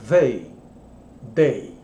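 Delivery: they with the tongue between the teeth, not day; th sound demo. Shown as a demonstration. Teacher contrasting they with day for students, careful demo. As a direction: land a clear voiced th on they. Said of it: "É totalmente diferente a posição da língua".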